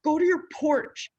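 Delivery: loud high mock shriek; wife shrieking at husband to leave; snappy wife. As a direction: shriek at him to go away. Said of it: "And she was like".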